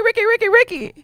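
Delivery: hype call-out. Acted. Hyping up guest's entrance.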